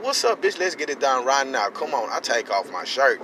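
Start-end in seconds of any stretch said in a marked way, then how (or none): 0.0-2.1 retold fight challenge. Squaring up for a fight.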